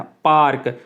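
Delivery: पार्क with the R sounded fully after the a; teacher says पार्क sounding the R clearly; clear R in park. Shown as a demonstration. Teacher showing students the R in पार्क, clearly sounded. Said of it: "आर जो है वो fluently".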